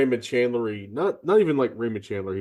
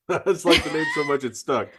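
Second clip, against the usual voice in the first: laughing; 5 semitones higher than usual. Real, not acted. Laughing through a favourite quote.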